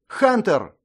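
high, loud call. A narrator's reading. Mira calling out to distract the hunter. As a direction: call his name sharply. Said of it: "выкрикнула Мира".

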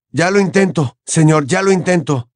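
dismayed. Acted. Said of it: "dijo consternado".

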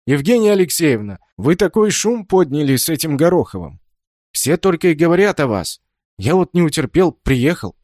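eager guest who couldn't wait; excited. Acted. Гость ввалился с новостью.

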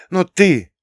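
high, loud accusing outburst; angry girl's cry, high and loud; furious. Acted. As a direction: jab the words at him. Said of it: "яростно вытерла".

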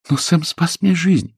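a daughter begging for her rescuer; daughter pleading. Acted. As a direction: daughter defending Sam to father. Daughter voiced in story.

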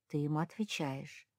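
usual speaking voice

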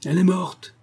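put-on old master's furious exclamation; angry cry. A narrator's reading. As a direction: cry it out in anger, pitch jumping up. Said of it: "cria-t-il en frappant de son bâton".

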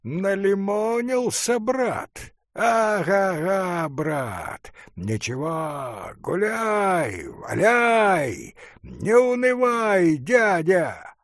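put-on drunk student, loud and merry; slurred tipsy jeer, rising high; drunken voice. A narrator's reading. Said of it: "сказал пьяным голосом". (пьяный весёлый голос, выше и громче)

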